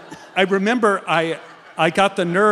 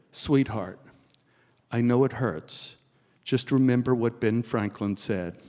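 very sweetly; 5 semitones lower than usual. Retold or imitated. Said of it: "say very sweetly".

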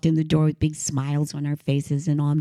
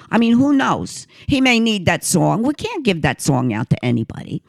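put-on Queens accent; 3 semitones higher, 3 dB louder than usual. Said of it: "That's the way she would talk".

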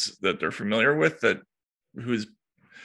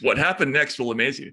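clickbait teaser; 2 semitones higher than usual. Pretend. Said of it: "this is the Upworthy style".

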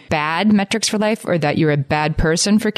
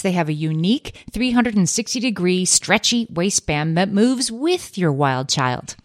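polished commercial voice; ad read. Acted. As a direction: pitch the product smoothly. Reads a Pampers ad.

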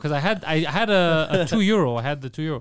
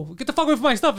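put-on higher-pitched old-man scolding; grumpy old man; 9 semitones higher than usual. Telling someone to leave his stuff, mock old man. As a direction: tell them off like an old crank. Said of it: "I'm like an old man".

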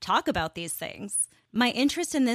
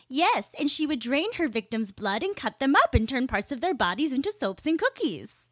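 sweet light voice; 5 semitones higher than usual. Retold or imitated. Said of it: "sweet, light voice".

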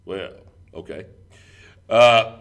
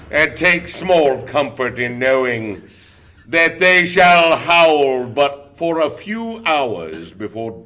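slow, loud, higher biblical oracle; doomsday prophet voice; 4 semitones higher, 4 dB louder, slower than usual. Pretend. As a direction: thunder it like an old prophet. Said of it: "Was that your New York accent".

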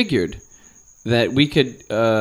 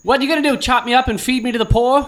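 higher-pitched hammed-up Boston accent; mock Boston accent; 8 semitones higher than usual. Joking among friends, a higher mock Boston tough guy. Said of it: "Every accent we do out here is the Boston accent".

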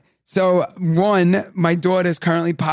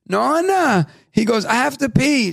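a hint of a little boy, a bit higher; child's voice; 4 semitones higher than usual. Son asking Nana to pee, a light little-boy voice. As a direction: ask it like a small boy needing the toilet.

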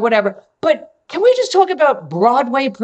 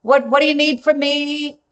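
cheery greeting; 5 semitones higher than usual. Retold or imitated. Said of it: "I said".

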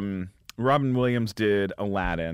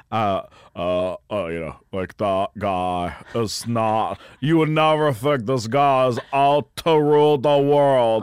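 Long Beach surfer voice; 6 dB louder than usual. Shown as a demonstration. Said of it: "Long Beach kinda surfer".

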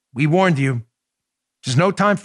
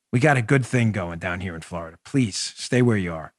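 usual speaking voice

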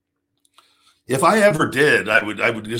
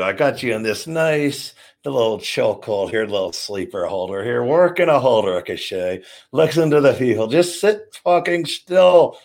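in-ring wrestler talk. Shown as a demonstration. Wrestler calling spots to Ricochet during the match. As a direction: talk your opponent through the hold. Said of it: "Talk like this".

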